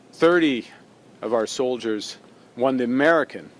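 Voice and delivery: measured formal speech, long pauses between phrases; solemn tribute. Real, not acted. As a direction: honour the fallen, letting each phrase stand.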